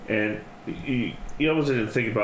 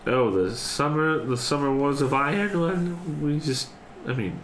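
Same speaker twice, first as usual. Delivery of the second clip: high, breezy little mouse voice; mouse matron voice; 4 semitones higher than usual. Acted. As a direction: chatter lightly about war.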